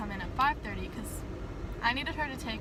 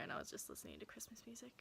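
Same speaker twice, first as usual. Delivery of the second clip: whispering; 18 dB quieter, faster than usual. Real, not acted. Whispered fast aside.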